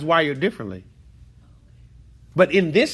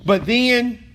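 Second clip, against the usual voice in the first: preaching build; 6 semitones higher, 5 dB louder than usual. Real, not acted. Teacher preaching emotionally about storms.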